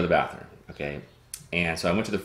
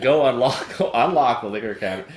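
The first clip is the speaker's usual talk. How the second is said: demanding; 5 semitones higher, 5 dB louder than usual. Retold or imitated. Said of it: "I didn't say that".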